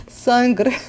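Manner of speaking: laughing Italian accent. Shown as a demonstration. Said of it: "Eu tô falando em italiano".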